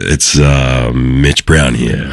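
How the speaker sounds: slow, smooth late-night DJ dedication; 80s FM radio DJ. Acted. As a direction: croon a love-song dedication like an old radio host. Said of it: "nineteen eighties FM radio".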